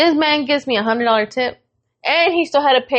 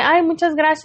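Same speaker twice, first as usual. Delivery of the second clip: higher-pitched mock gushing girlfriend; delighted thanks; 5 semitones higher than usual. Girlfriend thanking her man for the bouquet, imitated as delighted.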